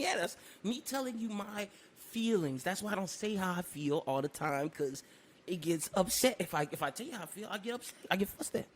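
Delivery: quiet. Retold or imitated. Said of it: "I was like".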